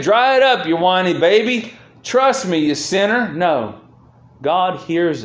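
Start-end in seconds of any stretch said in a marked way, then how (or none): 0.0-3.3 lightly acted, higher-pitched rebuke; mock scolding. Preacher imagining God dismissing a crying believer, mock scolding.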